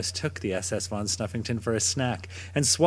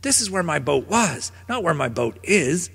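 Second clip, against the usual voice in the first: dog voice; 5 semitones higher than usual. Acted. Dog protests to otter.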